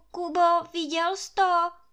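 stuttering with fear. Narrator reads the gamekeeper's line in a story; stuttering with fright. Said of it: "Koktá Hajný z toho leknutí".

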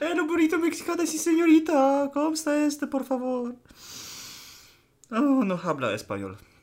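mixed Japanese and Mexican accent. Showing off a joke accent right after announcing it, in a fake Japanese-Mexican accent. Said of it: "Japońsko-meksykański akcent".

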